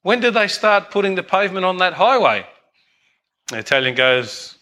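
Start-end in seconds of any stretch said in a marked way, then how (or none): 0.0-2.5 higher-pitched pointed question; brash American visitor. Acted. American tourist questioning Italian host about roadworks, brash. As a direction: play the nosy tourist in a joke. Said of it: "the American guy goes".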